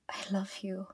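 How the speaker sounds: hushed, careful declaration of love; tender. A narrator's reading. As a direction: say it tenderly, half under your breath. Fearful sister's tender confession.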